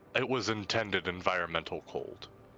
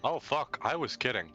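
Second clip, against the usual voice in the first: surprised; 6 semitones higher than usual. Real, not acted. Alarm at friend's fate.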